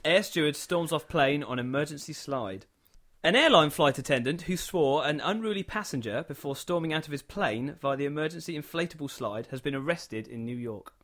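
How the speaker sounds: steady newsreader delivery; news read. Acted. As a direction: read it like a bulletin. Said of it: "is gonna read the news to you".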